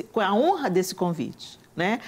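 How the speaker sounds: ordinary talk, nothing marked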